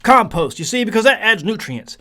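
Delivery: a hint of a confident fellow gardener; mock know-it-all gardener. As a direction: play the smug gardener who's sure of himself. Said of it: "And I ask".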